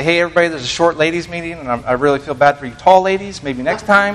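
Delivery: teasing announcement. Retold or imitated. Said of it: "I do that play on words there".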